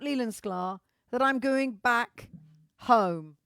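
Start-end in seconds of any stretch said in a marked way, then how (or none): 1.1-3.4 slow, loud, hammed-up reveal; Oscar-bait delivery of going home; mock dramatic. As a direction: play it like an award-winning scene. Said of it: "The acting".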